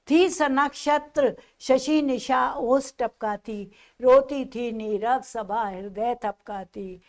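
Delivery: slow recited verse; poem recitation. Acted. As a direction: linger over each image.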